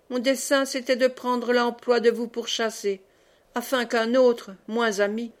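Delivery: mildly fervent, declaimed plea; fervent speech. Acted. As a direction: plead your noble cause with feeling. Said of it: "je poursuivrai, avec chaleur". (plaidoyer chaleureux, un peu déclamé)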